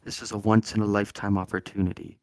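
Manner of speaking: quiet, reverent golf announcer; golf commentator. Pretend. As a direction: hush the big moment like a golf broadcast. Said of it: "impression of a golf announcer".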